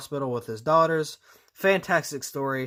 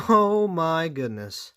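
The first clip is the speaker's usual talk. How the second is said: laughing disbelief; 3 semitones higher, much slower than usual. Real, not acted. Laughing at awful decal job.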